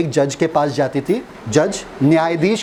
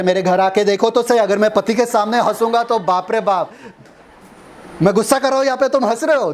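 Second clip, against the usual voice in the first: higher mock housewife voice; higher mock wife voice, rising; imitating a wife; 5 semitones higher than usual. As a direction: play the exasperated wife complaining about her angry husband. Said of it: "बोल रहे".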